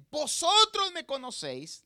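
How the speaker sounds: un toque de sarcasmo, más agudo; irónico. Acted. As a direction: dilo con ironía a los religiosos. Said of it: "con un tanto de ironía y sarcasmo". (leve ironía sarcástica)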